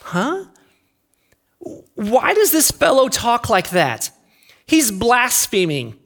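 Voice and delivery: puzzled "huh", then mildly scandalized objection; sceptical teachers of the law. Acted. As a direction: voice a touch of indignant questioning. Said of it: "teachers of the law were sitting there thinking to themselves".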